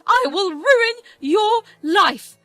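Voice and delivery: loud, high screaming threat; venomous threat. Acted. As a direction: scream the curse at her, rising to a shriek. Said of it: "addressed me with her venom".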